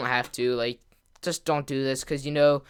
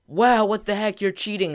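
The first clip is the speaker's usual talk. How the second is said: higher-pitched, mildly hammed-up outrage; mock indignant accusation; 6 semitones higher than usual. Beaten kid accuses the winner of cheating, mock indignant. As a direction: imitate a sore loser crying foul. Sore loser accusing him.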